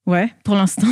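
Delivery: muffled behind a mask; speaking through a face mask. Real, not acted. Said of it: "puisqu'on enregistre avec le masque".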